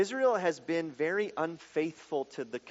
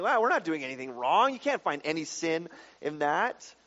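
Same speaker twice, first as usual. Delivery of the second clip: arrogant. Retold or imitated. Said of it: "I mean, just arrogant".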